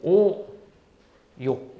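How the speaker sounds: each syllable spaced apart, slowly; teacher spelling out a list syllable by syllable; slow enumeration. Shown as a demonstration. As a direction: count them off one by one with long pauses. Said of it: "다시 한번 설명해 줄까?".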